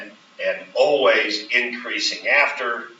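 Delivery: slow, "always" leaned on; emphasis on always. Shown as a demonstration. Teacher completing the model answer, stressing "always". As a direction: finish the dictated line with weight on "always". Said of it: "the emphasis on the word always".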